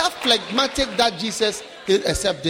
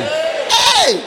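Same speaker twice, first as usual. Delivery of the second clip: surprised hey; 4 dB louder than usual. Acted. Surprise at roof opening.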